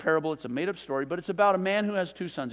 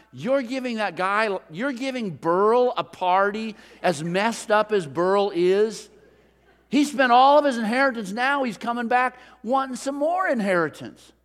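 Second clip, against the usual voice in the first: rising to a loud, resentful outburst; jealous son's loud complaint with a laugh of disbelief; indignant older brother; 3 semitones higher, 5 dB louder than usual. Acted. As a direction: protest to the father that it's unfair, getting louder. Older brother complains to his father.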